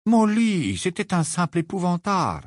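high soothing reassurance. A narrator's reading. Lupin strokes Molly's hair, soothing. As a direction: soothe her, it was nothing real. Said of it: "d'une voix apaisante".

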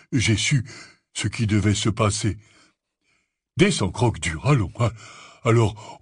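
lumber through it with pauses and fillers; hesitant, good-hearted Hagrid. A narrator's reading. Narrator plays Hagrid.

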